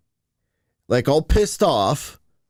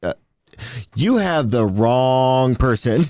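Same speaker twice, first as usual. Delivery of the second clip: confused; 4 semitones lower, slower than usual. Retold or imitated. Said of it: "And I'm like".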